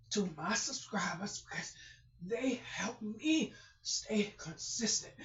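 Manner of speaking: soft whispered prayer; whispering. Real, not acted. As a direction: whisper it to God. Quiet whispered prayer after shouting.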